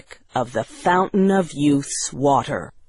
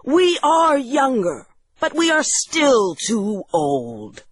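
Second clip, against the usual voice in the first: high-pitched, eager guest voice; excited cry; 7 semitones higher than usual. Acted. Guests still too old after the first drink, high excited cry. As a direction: cry out high, pleading at normal volume. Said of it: "they cried".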